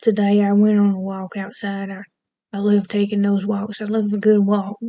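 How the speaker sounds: light Southern US accent; demonstrated Southern accent, conversational. Shown as a demonstration. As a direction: lean into a Southern twang. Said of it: "here's a Southern accent".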